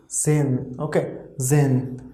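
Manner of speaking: zen said zeyn with the h dropped; German pronunciation demo. Shown as a demonstration. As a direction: say zen with a silent h. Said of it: "H will be like really less".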